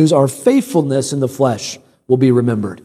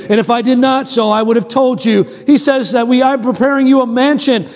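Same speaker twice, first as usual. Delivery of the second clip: higher-pitched, insistent sermon delivery; preaching; 5 semitones higher than usual. Real, not acted. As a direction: proclaim the promise to the congregation. Preaches on scripture.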